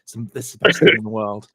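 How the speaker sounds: loud, fast mock gush; hammed-up fan gushing; mock excited confession. Friend imitates exec gushing over prop, loud and fast. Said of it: "He's just like".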